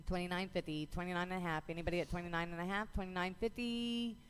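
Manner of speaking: rapid rhythmic bid calling; auctioneer. Real, not acted. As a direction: auction chant, numbers rolling. Auction chant calling bids.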